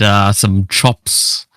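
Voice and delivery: slow, drawled mock Kiwi accent; a hint of a lazy Kiwi bro; mock Kiwi bloke. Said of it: "am I supposed to be more like".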